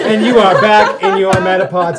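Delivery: loud, laughing TV host sign-off; show host voice. Acted. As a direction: announce it like a game show host.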